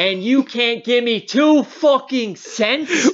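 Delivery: retold yell. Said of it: "and I'm yelling at 'em".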